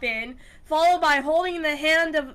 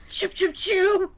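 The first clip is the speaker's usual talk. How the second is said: bird chirping; 8 semitones higher than usual. Acted. GM voicing bird sound.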